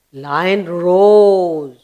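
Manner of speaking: "roars" stretched out and swelling; long, swelling vowel on "roars"; big-sounding roar. Shown as a demonstration. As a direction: draw out "roars" in a mild imitation of a lion. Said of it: "with a big sound".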